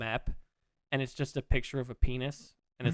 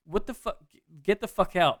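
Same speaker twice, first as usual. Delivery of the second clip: mock yell, pitched higher, growing louder; half-hearted yell at the guys in bed; imitated yell; 5 semitones higher, 6 dB louder than usual. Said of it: "she's just yelling at".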